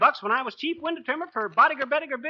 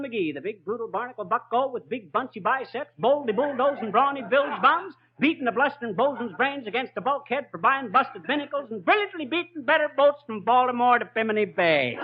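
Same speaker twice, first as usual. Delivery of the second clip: boastful alliterative patter; 2 semitones higher than usual. Acted. Braggart's alliterative title patter.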